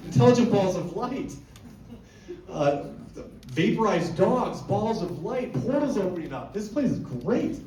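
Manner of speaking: high, giddy rush of wonder; gushing excitement. Retold or imitated. Fan reliving his first ranch visit, giddy and high. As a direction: rave about the place like a kid at a circus. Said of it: "Was like".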